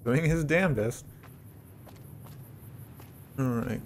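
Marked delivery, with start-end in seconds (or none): 0.0-1.0 amused chuckle while watching a companion fight; laughing. Real, not acted. Player laughs watching his companion fight hard, amused. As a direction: laugh through it, slowed.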